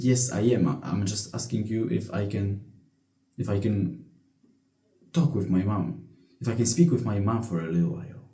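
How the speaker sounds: student mumbling an excuse to the teacher; meek reply. Retold or imitated. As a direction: quietly justify yourself to the teacher. Student answers teacher meekly.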